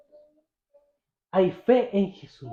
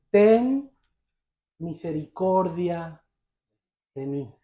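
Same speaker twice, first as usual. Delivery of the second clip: slow, pausing plea that falls soft and low; humble plea; 4 semitones lower, 4 dB quieter, slower than usual. Retold or imitated. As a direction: act a humble beggar asking, trailing softer. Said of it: "Es una petición humilde". (súplica humilde)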